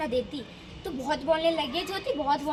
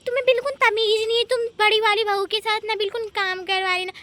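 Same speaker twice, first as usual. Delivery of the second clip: loud, high-pitched scolding; angry scolding; 4 semitones higher, 9 dB louder than usual. Acted. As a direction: scold like an outraged mother-in-law. Acted scolding by mother-in-law. (ग़ुस्से में ऊँची आवाज़ में डाँट)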